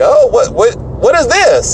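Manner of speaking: high-pitched retold bafflement; stammered, high mock surprise; imitated puzzled surprise. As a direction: play someone startled by an odd gadget. Acts out someone's reaction to gadget.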